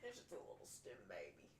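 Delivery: soft whisper to herself; whispered aside about her own laugh. Real, not acted. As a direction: breathe it out quietly.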